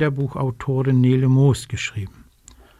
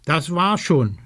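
higher, lightly voiced innocent fib; fibbing; 3 semitones higher than usual. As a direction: play the innocent. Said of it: "schwindelt der kleine Rabe".

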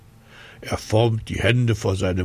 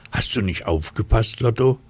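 ein bisschen aufgeregt; 3 semitones higher than usual. Acted. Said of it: "regt sich ein bisschen auf".

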